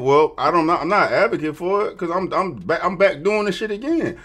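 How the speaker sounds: high, loud mocking impression of her. Mimicking the woman he's reacting to, high and loud. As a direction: squeak it out like you're mimicking her. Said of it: "Shawty literally answered the question by saying".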